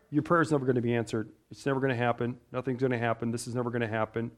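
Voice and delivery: low, quick, hushed negativity; discouraging inner voice. Acted. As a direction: murmur doubts fast and low, like the enemy planting them. Voicing the enemy's discouraging darts.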